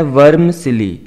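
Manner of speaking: वर्मसिली as VURM-si-lee, in clear parts; modelled pronunciation. Shown as a demonstration. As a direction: model वर्मसिली for learners, 'vurm' then 'silee'. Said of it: "इस तरह से इसको pronounce करना है". (वर्मसिली, साफ़ उच्चारण 'वर्म-सिली')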